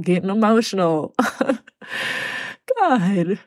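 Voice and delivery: getting teary about her mom's health; choked up. Real, not acted. Telling listeners about her mom's struggles, choked up. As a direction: voice catching, holding back tears, only lightly heard. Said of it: "I get choked up".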